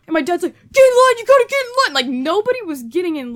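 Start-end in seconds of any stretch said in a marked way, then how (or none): 0.7-1.9 fast, loud, high barked order; panicked yelling. Retold or imitated. Panicked dad yelling at son to get in line, fast and loud. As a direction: hurry the son along in a panic.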